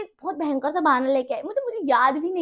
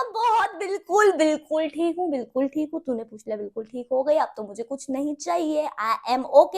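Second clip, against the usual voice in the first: giddy swoon; 2 semitones higher, 5 dB louder than usual. Retold or imitated. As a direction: gush like a smitten kid. Swooning reply to crush.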